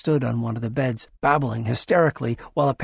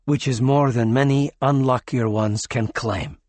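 snapped. Acted. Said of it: "the alien snapped".

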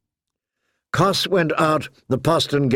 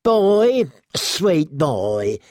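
calling out; 8 semitones higher, much slower than usual. A narrator's reading. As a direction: call out slowly, savouring the word war. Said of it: "called out from the back".

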